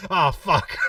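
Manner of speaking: high, laughing "ah, fuck"; laughing curse. Retold or imitated. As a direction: swear through a laugh at yourself. Ron realises his blunder, laughing.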